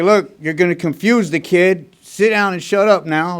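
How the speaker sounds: retold angry scolding. Old timer telling the speaker to sit down, mock-angry loud scold. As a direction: bark it at him like a fed-up old timer.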